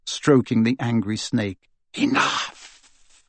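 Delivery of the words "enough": Enough! breathed as a cold whisper; whispered command. Acted. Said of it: "said Voldemort".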